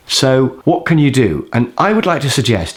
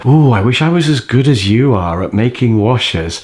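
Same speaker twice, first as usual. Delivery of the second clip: mock gushing. Mock praise he imagines saying.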